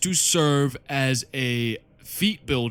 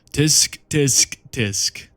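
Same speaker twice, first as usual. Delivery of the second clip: mock disapproval; 5 dB louder, much slower than usual. Mocking the loser prince.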